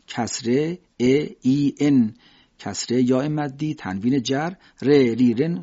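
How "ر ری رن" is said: light r in ری and رن; ر thin and simple; simple Persian ra. Shown as a demonstration. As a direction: say ری with an ordinary Persian r.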